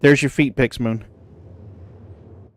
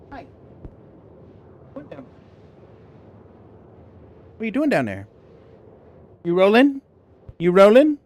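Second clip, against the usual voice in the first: much higher, cooing pet voice; 8 semitones higher than usual. Real, not acted. Streamer coos at her cat rolling on the floor, high baby talk.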